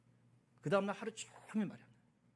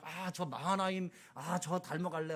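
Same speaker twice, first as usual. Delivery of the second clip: put-on admiring kids; slower than usual. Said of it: "애기들은 막".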